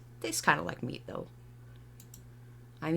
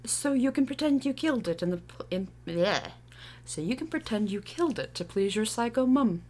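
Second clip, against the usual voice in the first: put-on tentative British accent; 3 semitones higher than usual. Tree asked by youth to sound British, attempted British accent. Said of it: "Can you do a British accent?".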